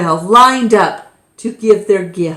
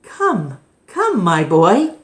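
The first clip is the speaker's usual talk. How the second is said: gentle invitation. Acted. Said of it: "and smiled".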